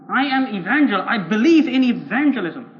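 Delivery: emphatic, proud declaration; self-righteous insistence. Acted. Evangelical defends his record to the preacher, self-righteous insistence. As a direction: assert your credentials firmly.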